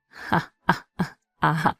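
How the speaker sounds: owner's forced laugh, lightly read; a dry fake ha-ha-ha; mock laugh. A narrator's reading. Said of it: "let out a laugh".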